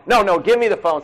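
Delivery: pushy wife grabbing the phone. Retold or imitated. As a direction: play the wife who takes over the call. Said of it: "some of your wives are like".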